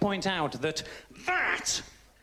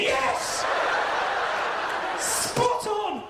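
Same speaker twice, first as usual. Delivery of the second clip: sarcastic delight; 11 semitones higher, much slower than usual. Retold or imitated. Mocking woman's sarcastic reply.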